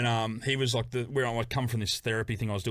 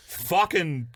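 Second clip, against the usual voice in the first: laughing through a slow fucking go; half-laughed fucking go; laughing retold order; 3 semitones higher, 5 dB louder, much slower than usual. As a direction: crack up while quoting the monk. Monk tells him to go.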